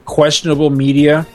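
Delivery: ordinary talk, nothing marked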